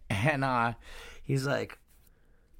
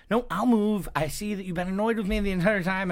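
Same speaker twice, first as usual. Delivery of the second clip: much higher and louder, huffy; offended girl; 9 semitones higher, 4 dB louder than usual. Retold or imitated. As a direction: storm off in a huff. Girl offended, moving seats.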